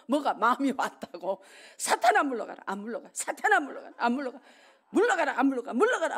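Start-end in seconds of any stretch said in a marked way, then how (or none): 1.8-2.6 firm rebuke, calling out louder; rebuking Satan. Retold or imitated. Preacher reenacting his prayer, firm loud rebuke. 3.1-3.9 raised commanding rebuke; rebuking Satan. Retold or imitated. Preacher reenacting his prayer, raised commanding rebuke. 4.9-6.2 louder repeated command; rebuking Satan. Retold or imitated. Preacher reenacting his prayer, louder repeated command.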